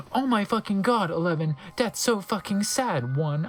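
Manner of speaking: a touch of hammed-up dismay; mock gasping shock. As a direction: lightly play the horrified gasp. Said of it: "I gasped".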